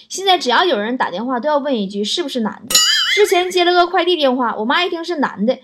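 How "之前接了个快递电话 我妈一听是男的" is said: excited mom. Retold or imitated. Mother excitedly questions about boyfriend.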